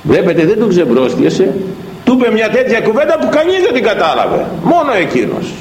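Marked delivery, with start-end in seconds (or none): 2.0-5.5 impassioned preaching. Acted. Preaching at full force.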